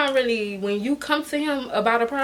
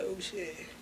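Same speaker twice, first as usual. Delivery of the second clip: hushed alarm; 3 semitones lower, 16 dB quieter than usual. Retold or imitated. Alarmed aside at gun threat.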